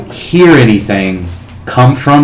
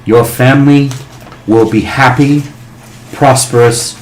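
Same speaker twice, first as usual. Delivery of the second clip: booming dragon voice. Acted. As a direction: grant the wish like an ancient dragon. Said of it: "with that booming voice".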